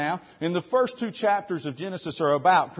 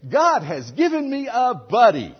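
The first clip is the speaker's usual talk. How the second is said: mock cheerful Adam; 6 semitones higher, 6 dB louder than usual. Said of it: "Adam says".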